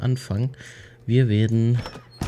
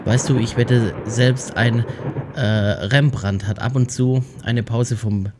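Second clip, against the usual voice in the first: letter reading. Acted. Reads in-game note aloud.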